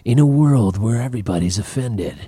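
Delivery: slow, dramatic trailer announcer; movie trailer voice. Pretend. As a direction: intone it like a big movie trailer. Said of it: "I think that's pretty good".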